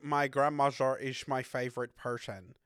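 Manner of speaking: put-on lightly Swedish-accented line; a hint of a Swedish lilt. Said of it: "That's my Swedish accent".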